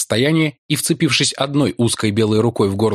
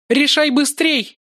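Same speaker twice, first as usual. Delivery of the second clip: high, slow, icy command; cold and menacing; slower than usual. A narrator's reading. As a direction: threaten coldly. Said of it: "Голос жрицы звучал холодно и грозно". (холодно и грозно)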